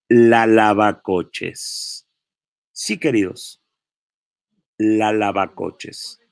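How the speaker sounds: slow, drawn-out mocking nickname. Real, not acted. Vlogger christening the woman a nickname, slow and mocking. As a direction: savour the insult slowly. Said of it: "nos vamos a referir a ella como".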